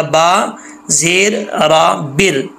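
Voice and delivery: बिर slow with a thin रा; light ra. Shown as a demonstration. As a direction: spell बिर slowly, light रा. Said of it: "बा बारीक पढ़ा जाएगा".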